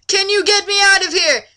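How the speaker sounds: high, loud mock plea; hammed-up pleading damsel. Reading Laura's plea to a friend, high and begging. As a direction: beg like an overdone damsel.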